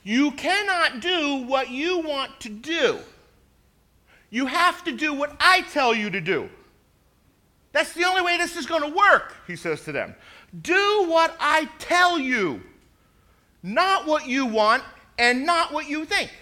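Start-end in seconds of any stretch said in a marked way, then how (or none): 0.0-9.4 loud, forceful coach's command; powerful coach voice. Retold or imitated. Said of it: "in a very powerful voice". 10.6-16.3 forceful, slow and loud command; loud coach order. Retold or imitated. Coach orders his linemen.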